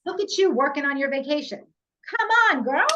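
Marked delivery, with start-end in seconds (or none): 1.6-2.8 high, loud playful cheer; cheering her on. Real, not acted. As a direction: hype your friend up with a whoop. Cheering friend on, laughing.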